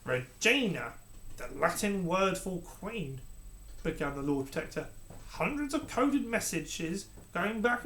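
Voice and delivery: sneering advisor, relishing the reveal; villainous advisor. Acted. Lord Protector exposes the Queen.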